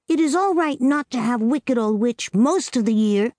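put-on a small girl laying down the rules; little girl Amy. A narrator's reading. Amy thinks aloud, doubting.

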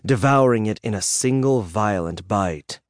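plain reading voice

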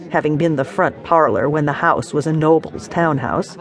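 usual speaking voice

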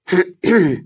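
pointed throat clearing. Acted. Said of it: "machte eine Stimme direkt neben ihr".

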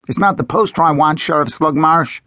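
a hint of a nervous kid; boy hero voice. A narrator's reading. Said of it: "I replied".

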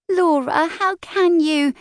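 high, slow and tearful; a little girl close to crying, hurt; dissolving into tears. A narrator's reading. Pin turning to her sister, high and tearful.

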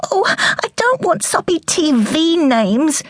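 put-on a young girl begs her mother, in a high child voice; little girl. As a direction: ask like a curious young girl. Daughter rejects TV names.

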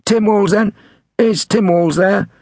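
high-pitched prank-call voice; prank caller. A narrator's reading. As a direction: ask innocently in a high put-on voice. Prank caller keeps asking.

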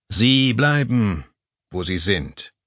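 slow, measured command; calm and firm. Acted. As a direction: lay it down without hurry. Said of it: "klang ruhig und bestimmt". (ruhig, langsam und bestimmt)

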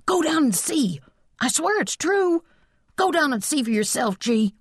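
put-on very high, urgent kid pleading; frantic boyish insistence; hysterical boy. A narrator's reading. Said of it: "Charlie exclaimed hysterically".

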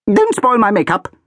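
high, loud sharp snap; snapping. A narrator's reading. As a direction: bite the child's head off. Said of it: "snapped the Archduchess".

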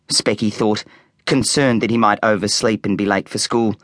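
ordinary delivery

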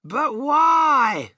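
high, wailed question; shouted protest. A narrator's reading. Passengers all questioning the inventor at once, high shout. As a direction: cry out in alarmed disbelief. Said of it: "they all shouted at once".

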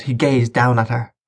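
plain reading voice

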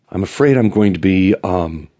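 a slighted queen's reproach; scorned, huffy. Acted. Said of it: "scorned bitch".

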